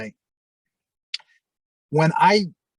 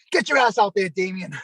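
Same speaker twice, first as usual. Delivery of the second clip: sharp shouted order, pushing him out; urgent backstage shout; retold shout; 5 semitones higher than usual. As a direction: bark it like a coach sending you out. Partner urging him out, shouting.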